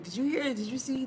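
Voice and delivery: gossiping neighbor. Acted. Acting out community gossip.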